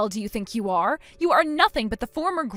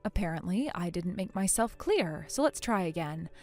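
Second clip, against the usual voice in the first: softer, icy and controlled; cold and quiet; 4 semitones lower, 7 dB quieter than usual. Acted. Bride coldly repeating herself to the sister-in-law, icy and quiet. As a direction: hold the anger down, cold.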